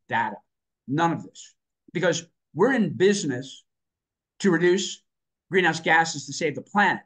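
earnest, emphatic conviction; getting worked up while making the case; fired up. Real, not acted. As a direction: drive each point home with punchy stresses. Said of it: "I'm getting a little fired up here".

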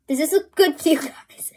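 whisper. Real, not acted. Asking viewers mid-cooking.

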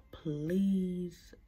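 breathy giggle while trying to talk; can't get the word out for laughing; laughing through pain. Real, not acted. Laughing through a sore mouth, trying to say the outro. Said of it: "I can't even talk".

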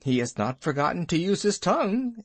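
quick, with a touch of pride; mild proud bear; proud chuckle. Acted. Baloo praises Mowgli to Bagheera, a touch of proud chuckling. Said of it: "said Baloo with a chuckle of pride".

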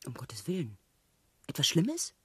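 breathless, whispered worry; anxious whisper. Acted. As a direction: whisper it, fearing the answer. Anxious question to her lover.

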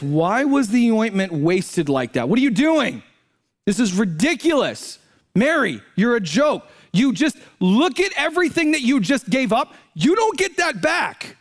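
acted scolding, rising from level to high pitch; preacher voicing incensed disciples rebuking Mary; indignant. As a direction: scold her in mounting outrage. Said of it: "They are incensed and angry".

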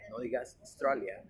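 "Australia" as "Stralia", l kept; wrong take, no Au. Shown as a demonstration. Teacher warning learners, "Stralia" with l. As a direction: start "Australia" on S, still sounding the l.

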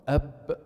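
Ab held tight, no breath escaping; voiced ab. Shown as a demonstration. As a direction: close Ab with a firm blocked stop. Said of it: "you notice there is no breath coming out".

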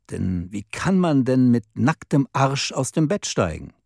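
a touch of disappointment, slowing in the middle; disappointed voice. Acted. Woman tells the man off, mildly disappointed. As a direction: lightly let her down with understated hurt. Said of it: "mit enttäuschter Stimme".

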